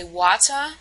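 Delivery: "water" with the final r dropped, ending in "ah"; New England pronunciation. Shown as a demonstration. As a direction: say "water" as "watah". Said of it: "we can hear it's a phonological difference".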